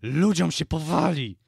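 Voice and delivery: loud, high yell of protest; indignant shouting. A narrator's reading. Zaraza goes on objecting to the Baron, indignant shouting. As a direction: keep yelling in outrage.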